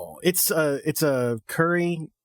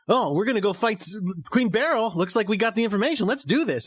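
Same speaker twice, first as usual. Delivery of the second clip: breezy casual scouts; 5 semitones higher than usual. Retold or imitated. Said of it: "They're just like".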